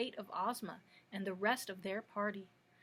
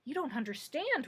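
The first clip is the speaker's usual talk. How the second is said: nervous; 4 semitones higher than usual. Acted. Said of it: "retorted the little monarch nervously".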